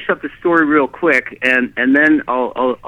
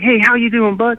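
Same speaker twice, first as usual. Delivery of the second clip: higher-pitched friendly hello, retold; outgoing greeting; 7 semitones higher than usual. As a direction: imitate an outgoing stranger's greeting. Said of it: "he's really outgoing".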